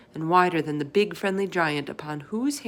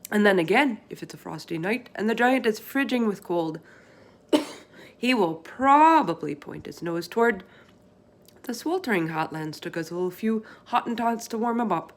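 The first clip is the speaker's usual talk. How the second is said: folksy giant voice, a touch higher; BFG voice; 4 semitones higher, 3 dB louder than usual. Acted. Giant explaining to Sophie what the others do, folksy. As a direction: play the big friendly giant, chatty and earnest.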